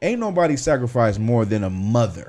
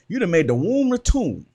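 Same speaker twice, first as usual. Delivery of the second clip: imitated old Southern accent, higher pitch; Captain Cahunt; 5 semitones higher than usual. Quoting Captain Cahunt's line to the panel, lightly imitated Southern accent. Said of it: "in his old Southern accent".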